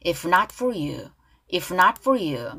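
slow model phrase with clear F in "If" and "for"; measured "If not for you", Fs distinct; F sound. Shown as a demonstration. Teacher drills the line for learners, clear Fs. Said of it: "F 발음".

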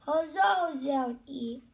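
cheering. Acted. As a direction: cheer it like a crowd. Characters cheering.

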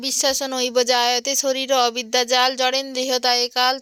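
devotional Sanskrit verse recited in rhythm; prayer recitation. Real, not acted. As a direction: recite the prasad prayer with reverence. Recites prayer before eating prasad. (প্রসাদের আগে ভক্তিভরে মন্ত্র পাঠ)

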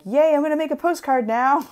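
high, loud, hammed-up cheer; mock gleeful. Crafter confessing her new hobby obsession, mock gleeful. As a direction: imitate your own giddy burst of enthusiasm. Acting out own later reaction.

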